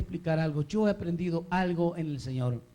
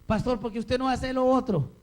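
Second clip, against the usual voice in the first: higher-pitched questioning of the pastor; lightly acted church member; 6 semitones higher, 3 dB louder than usual. Member questions the pastor's choices, lightly acted and higher. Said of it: "A veces usted puede decir".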